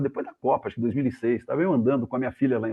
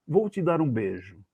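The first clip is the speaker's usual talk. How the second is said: measured, slowed-down example phrase; slow demonstration; slower than usual. Shown as a demonstration. Journalist sets up a translation for listeners, slow demonstration. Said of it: "vamos dizer assim, italiano diz assim".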